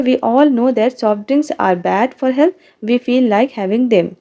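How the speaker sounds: reading each word slowly for the class; dictating the sentence slowly and clearly; slow textbook reading. Shown as a demonstration. Reads example sentence to class. (धीरे-धीरे पाठ पढ़कर सुनाना)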